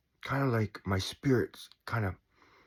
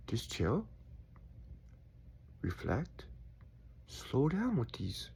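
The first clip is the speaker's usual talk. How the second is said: slow, softer whispered calm; 10 dB quieter, slower than usual. Real, not acted. Speaker soothing himself after yelling, slow whisper. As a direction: breathe it out slowly and softly.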